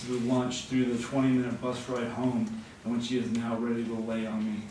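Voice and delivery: animated literary reading; projected, storytelling delivery; story narration. A narrator's reading. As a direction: read the story out to a live audience. Reads a story aloud.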